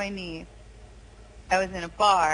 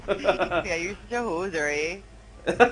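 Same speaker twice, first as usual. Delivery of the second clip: lightly put-on Canadian accent, eh drawn out; a hint of a Canadian hoser; 4 semitones lower, slower than usual. Teasing a friend in a mock Canadian accent. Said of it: "you got the Canadian accent down".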